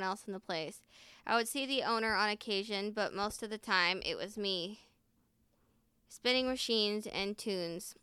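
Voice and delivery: animated, fuller-voiced reading aloud; story narration. A narrator's reading. Reading a laundromat meet-cute story aloud, lively narration. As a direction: read the tale out clearly with lively emphasis.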